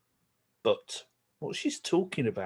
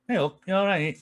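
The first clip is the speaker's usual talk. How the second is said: Yorkshire greeting; 6 semitones higher, 4 dB louder than usual. Shown as a demonstration. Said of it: "In Yorkshire, we probably say".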